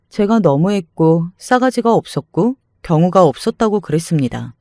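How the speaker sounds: usual speaking voice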